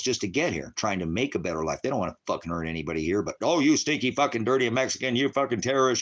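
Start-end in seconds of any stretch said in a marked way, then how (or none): 3.4-6.0 mock racist insult.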